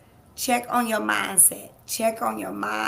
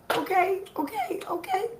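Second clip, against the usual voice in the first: laughing okay; 9 semitones higher than usual. Real, not acted. Laughing through emotion.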